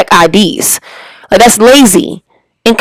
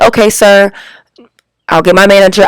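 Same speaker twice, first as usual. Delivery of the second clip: mild, contained customer-service voice; calm and professional. Acted. Worker to a customer who popped up at her, calm and respectful. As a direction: stay polite and level, no edge. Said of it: "calmly, respectfully, and professionally without cursing".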